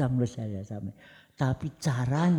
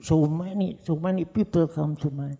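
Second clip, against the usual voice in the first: proud boast; 6 semitones higher, 6 dB louder than usual. Real, not acted. Proud boast of big crowd.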